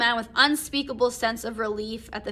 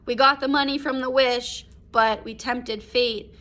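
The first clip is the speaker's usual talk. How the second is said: shocked exclamation; 2 semitones higher, 7 dB louder than usual. Retold or imitated. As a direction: exclaim it, then it sinks in. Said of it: "the big moment of, like".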